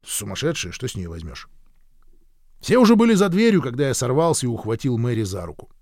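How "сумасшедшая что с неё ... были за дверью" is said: usual speaking voice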